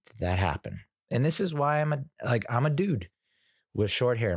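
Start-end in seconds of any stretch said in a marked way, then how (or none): 0.1-0.8 slow, stunned disbelief; drawn-out what happened; shocked disbelief. Retold or imitated. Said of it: "And I'm just like".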